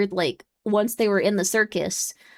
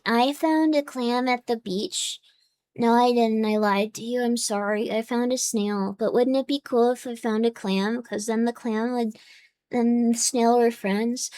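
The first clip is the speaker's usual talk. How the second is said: put-on three-year-old voice; 5 dB quieter than usual. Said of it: "That's what a three-year-old would sound like".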